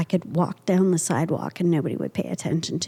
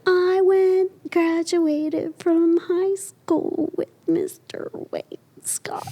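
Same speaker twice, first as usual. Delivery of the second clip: laughing whisper; 8 semitones higher, much slower than usual. Retold or imitated. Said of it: "And I said".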